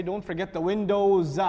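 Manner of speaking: slow, "windows" hit with a falling tone; stress on windows. Shown as a demonstration. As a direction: dwell on "windows" as the key word. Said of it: "emphasize what? The windows".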